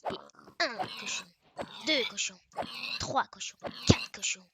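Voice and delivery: excited counting. Real, not acted. Counting pigs, getting louder.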